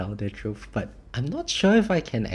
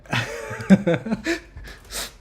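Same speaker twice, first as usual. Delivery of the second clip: high giggle; 11 semitones higher, 5 dB louder than usual. Real, not acted. Reacting to song request.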